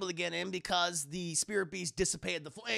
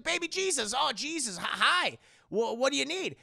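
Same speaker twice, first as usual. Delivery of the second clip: flustered; 7 semitones higher than usual. Acted. Yusuke flustered greeting.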